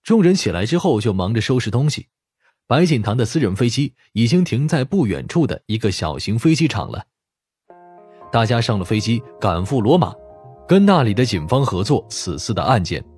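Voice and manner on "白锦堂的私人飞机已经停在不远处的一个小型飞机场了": usual speaking voice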